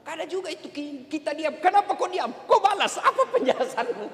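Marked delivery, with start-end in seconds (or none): 1.6-4.1 higher-pitched demands, hammed up for laughs; mock nagging wife. Wife to her silent husband demanding a reply, mock nagging. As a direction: lightly act out a wife demanding answers.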